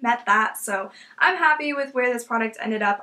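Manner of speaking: talking while getting over a cold; stuffy nose. Real, not acted. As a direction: voice thick from a cold. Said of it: "I'm really sorry if I sound, like, sick".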